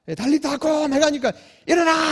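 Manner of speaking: loud high bark to wake the dead; shouted command. Acted. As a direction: yell it like ordering a child up.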